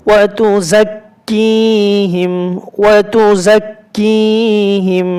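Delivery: ওয়া তু জাক্কিহিম slowly, with a held nasal hum on the মিম; ghunna demo. Shown as a demonstration. Teacher models ghunna for students, slow and careful. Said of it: "গুণনা করে পড়তে হবে".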